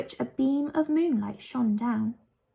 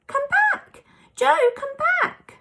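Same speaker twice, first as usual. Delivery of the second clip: much higher, louder desperate yell; frantic yell; 5 dB louder, slower than usual. A narrator's reading. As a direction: yell after the vanished boy. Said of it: "yelled Moonface".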